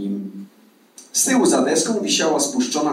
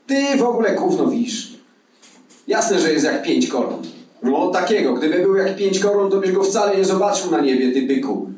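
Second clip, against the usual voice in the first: higher-pitched, mildly exasperated put-down; scornful arguing Malina; 7 semitones higher than usual. Acted. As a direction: argue back like a know-it-all mate, voice lifted. Voiced quarrelling character. (zaczepny, kłótliwy ton)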